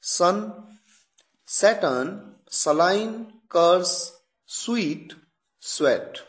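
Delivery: सन and स्वीट said with a crisp hissing s; careful teacher demo of s words; s word examples. Shown as a demonstration. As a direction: model each word with a sharp s. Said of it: "examples आपके सामने हैं".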